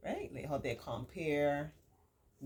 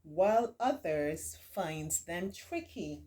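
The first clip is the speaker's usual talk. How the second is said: put-on slow, clear read-aloud voice for children; reading a picture book to kids; story reading; slower than usual.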